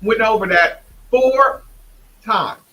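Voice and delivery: hammed-up coach at practice; imitating a drill sergeant coach. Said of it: "He says".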